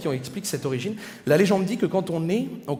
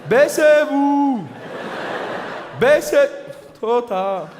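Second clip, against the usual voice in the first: put-on Swiss accent, shouted higher and louder, drawn out; mock action-movie Swiss accent; 6 semitones higher, 4 dB louder, much slower than usual. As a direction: bark orders in a hammed-up Swiss accent. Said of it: "Tu vois". (ordres criés avec un accent suisse exagéré)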